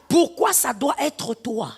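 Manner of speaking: each word laid down deliberately; slow mocking repeat of the jealous question; slow, weighted repeat. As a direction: draw out the jealous question slowly. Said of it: "slowed repeat of the quote".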